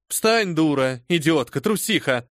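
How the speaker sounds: loud, harsh insults; contemptuous scolding. Acted. The lady berating her kneeling servant with contempt.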